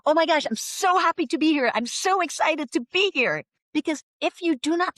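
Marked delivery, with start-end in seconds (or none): 0.1-3.4 high-pitched, gushing mock excitement; imitating someone thrilled to be here; show of enthusiasm. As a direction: lay on the American enthusiasm, stressing SO. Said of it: "it is very important to show enthusiasm".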